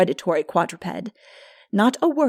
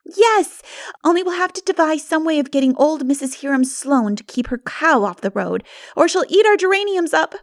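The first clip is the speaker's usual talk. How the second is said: laughing; 8 semitones higher, 5 dB louder than usual. A narrator's reading. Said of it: "laughed Diana".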